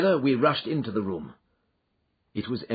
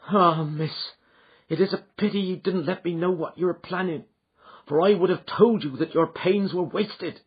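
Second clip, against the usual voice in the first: a hint of a higher servant woman; lightly voiced housekeeper; 8 semitones higher than usual. A narrator's reading. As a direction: speak as a humble housekeeper.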